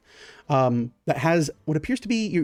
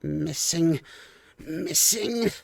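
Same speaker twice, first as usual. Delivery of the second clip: puzzled kobold musing; much slower than usual. Acted. Wizzo inspecting the drink, musing with rising pitch. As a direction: search your memory, rising until it clicks. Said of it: "looks at it and goes".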